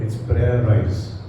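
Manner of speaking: hushed slow introduction of "prayerize"; soft, slow coinage. Shown as a demonstration. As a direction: savour "prayerize" quietly, drawn out. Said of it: "I've made a word out of it".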